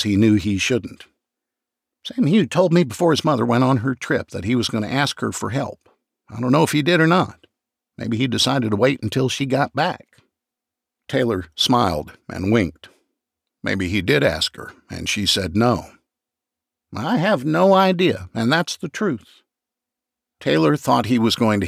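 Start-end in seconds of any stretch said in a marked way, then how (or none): 2.0-10.1 raised, nervous chatter; a touch higher anxious clerk; McCracken's voice. Acted. McCracken talking to detective. 16.9-19.4 high, insistent denial; raised protesting voice; McCracken protesting. Acted.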